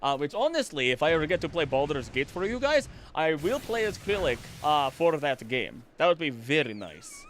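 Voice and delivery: lightly voiced tabletop game character; Krillic. Shown as a demonstration. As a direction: aristocratic vampire-style voice with a hint of Russian accent. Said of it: "this is the voice that I would do for Krillic".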